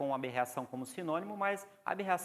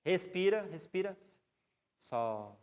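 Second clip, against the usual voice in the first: breathing commands; 3 semitones higher, slower than usual. Shown as a demonstration. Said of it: "você segura de novo".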